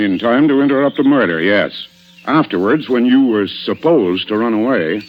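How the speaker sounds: pressing accusation. Acted. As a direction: push the accusation harder, closing in. Inspector pressing accusation on suspect.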